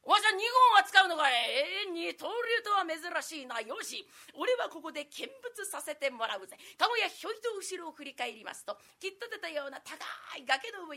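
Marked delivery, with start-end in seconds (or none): 0.1-6.6 lightly voiced swaggering commoner; a hint of a cocky bystander; rough townsman voice.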